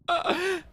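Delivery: brief high-pitched laugh; short laugh. Real, not acted. Player laughing after admitting dislike of own thoughts, short laugh. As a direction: let out a quick high chuckle.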